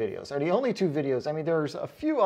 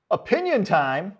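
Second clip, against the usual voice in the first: pompous commenter; 4 semitones higher, 6 dB louder than usual. Retold or imitated. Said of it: "imagine this guy straightening his fucking tie".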